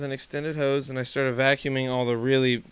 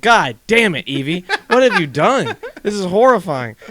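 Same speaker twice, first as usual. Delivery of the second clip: higher, louder, laughing horror; mock-horrified yell at Evie about the flooded floor; retold horrified yell; 6 semitones higher, 8 dB louder than usual. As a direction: wail at the dog as you relive the shock.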